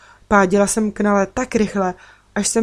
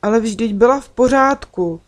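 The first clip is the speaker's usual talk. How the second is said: higher, louder surprised protest; taken aback, raised pitch; 4 semitones higher, 5 dB louder than usual. A narrator's reading. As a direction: object in surprise, voice lifted. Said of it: "řekla jsem překvapeně".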